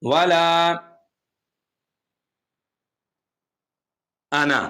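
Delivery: measured recitation with held long vowels; Quran recitation. Shown as a demonstration. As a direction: recite the verse slowly and carefully. Recites verse piece by piece.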